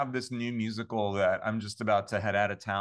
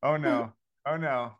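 mock dread; 3 semitones higher, 3 dB louder than usual. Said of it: "I was like".

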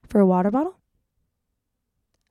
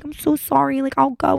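higher, mock-sweet apology; sweet and innocent; 5 semitones higher than usual. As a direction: play the innocent little good girl, lightly. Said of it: "I'm being all sweet, like, the sweet little Bible Casey".

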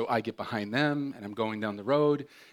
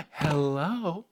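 sweet phone voice; 5 semitones higher than usual. Retold or imitated. Mom switches to sweet phone voice.

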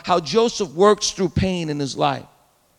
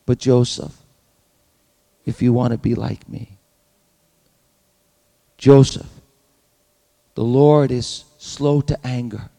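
still small voice of God; 4 semitones lower than usual. Pretend. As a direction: speak as God, calm and low, with long pauses. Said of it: "small voice".

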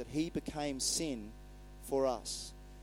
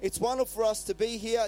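lightly raised, pitched-up exclamation; exclaiming; 5 semitones higher, 4 dB louder than usual. Acted. Peter exclaims to Jesus on the mountain, exclaiming. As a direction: exclaim it in mild wonder. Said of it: "Peter exclaimed".

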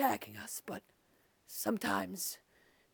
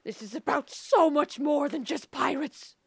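impassioned plea; 5 dB louder than usual. Acted. Impassioned protest.

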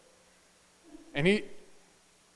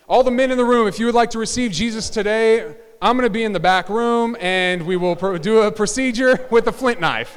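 mock altar call; 3 semitones higher, 6 dB louder than usual. Mock altar call with flint knife.

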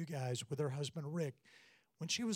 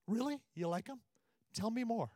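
higher, eager fishing for more praise; hammed-up delight, begging for compliments; husband hamming up his hunger for his wife's praise; mock eager; 7 semitones higher than usual.

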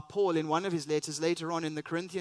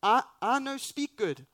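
higher, louder, flustered broken English; mock Moses; 7 semitones higher, 7 dB louder than usual. Moses telling God he can't speak, higher and louder. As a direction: blurt it out like a panicked Moses. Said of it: "It's like".

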